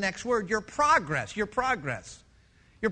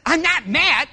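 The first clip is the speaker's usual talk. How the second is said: laughing denial; 5 semitones higher, 9 dB louder than usual. Retold or imitated. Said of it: "it sounds like you're mad".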